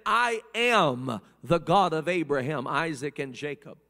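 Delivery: voice of God. Retold or imitated. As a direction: proclaim it as God speaking from the bush. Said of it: "And this voice said".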